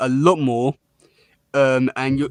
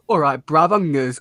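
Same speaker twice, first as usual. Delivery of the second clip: put-on Essex hard man accent. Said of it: "I sound a bit Australian".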